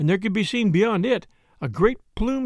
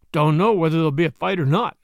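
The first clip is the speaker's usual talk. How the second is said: grim; 4 dB louder than usual. Acted. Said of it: "answered one man grimly".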